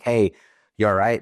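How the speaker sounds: retold call-out. Soldier checks on teammates up the ladder, mildly calling out. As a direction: lightly imitate calling up to someone.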